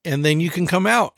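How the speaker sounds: lightly acted instruction to a small child; breezy mock parent voice; upbeat parent. Dad retells instructing his daughter.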